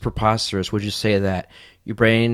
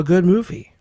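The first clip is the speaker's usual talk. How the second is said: sarcastic; 8 semitones higher, 3 dB louder than usual. Acted. Sarcastic doubt about Doctor Strange.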